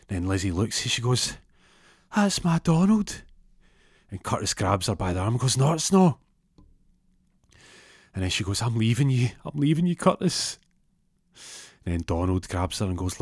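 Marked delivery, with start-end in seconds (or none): 2.1-3.2 high, slow adoring gush; swooning Lizzie. Retold or imitated. Lizzie recognising Donald in the smoke, slow adoring gush. 5.6-6.2 high, loud flat denial; protesting Curtis. Retold or imitated. Curtis grabbing Lizzie by the arm, loud jealous denial. 8.6-10.6 Lizzie leaving. Retold or imitated. Lizzie dumps Curtis.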